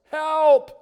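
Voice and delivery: loud, high cry of "Help!"; yell for help. Acted. Boy yelling out the eaglet's cry for help, loud. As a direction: cry out as if falling. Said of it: "Tommy yells".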